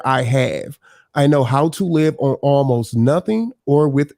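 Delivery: measured, emphatic Bible reading; scripture reading. Real, not acted. Panelist reading Philippians aloud to the panel, scripture reading. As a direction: read the verses out clearly to the group.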